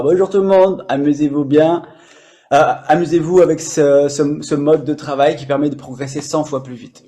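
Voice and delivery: spontaneous, upbeat greeting to the viewers; improvised, lively. Shown as a demonstration. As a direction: say it off the cuff, full of energy. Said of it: "J'aurais très bien pu le dire comme ça".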